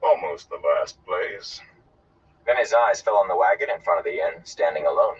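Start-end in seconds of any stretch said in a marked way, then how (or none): 0.0-1.6 slow, dry afterthought; understated, slow sardonic aside. Acted. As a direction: add it drily, drawing it out. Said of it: "and dryly added".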